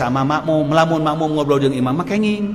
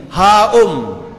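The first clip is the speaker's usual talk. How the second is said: a hint of a blunt villager, louder; curt Baduy reply; 3 semitones higher, 6 dB louder than usual. Prophet replying in the Baduy's rough way, curt. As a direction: grunt it back curtly. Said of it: "Dijawab ku bahasa Baduy deui".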